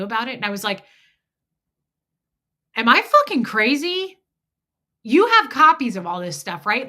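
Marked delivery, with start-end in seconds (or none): 2.8-6.9 panicked question. Retold or imitated. Panicked call to friend Michelle.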